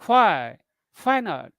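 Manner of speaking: WHY falling in pitch; brief question, voice falling on "Why". Shown as a demonstration. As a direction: let "Why" drop, short question with a falling tone. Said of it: "quick questions with falling tone".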